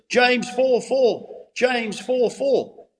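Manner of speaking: high, drawn-out imitated cry, no real volume; retold shout. Pastor retelling how a drunk man shouted out a verse, mock shout. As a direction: call it out high and slow, as if shouting. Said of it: "at the top of his voice, he shouted out".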